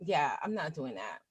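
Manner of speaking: dismissive refusal. Retold or imitated. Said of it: "I'm like".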